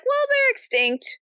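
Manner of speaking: mock matter-of-fact. Crowd member voiced.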